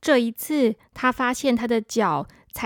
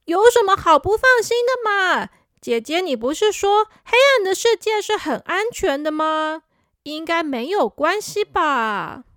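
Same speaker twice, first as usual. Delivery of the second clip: put-on childish protest; 4 semitones higher than usual. Boy protesting to sister.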